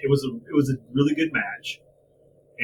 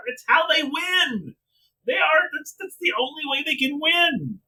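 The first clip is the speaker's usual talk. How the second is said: fed-up, incredulous tirade; exasperated angry rant; 5 semitones higher than usual. Real, not acted. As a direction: rant in disbelief, stretching words as the pitch climbs. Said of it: "I'm so angry right".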